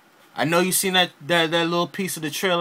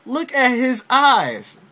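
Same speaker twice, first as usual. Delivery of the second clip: awed whisper-like exclaim; 7 semitones higher, 4 dB louder, slower than usual. Retold or imitated. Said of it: "I was like".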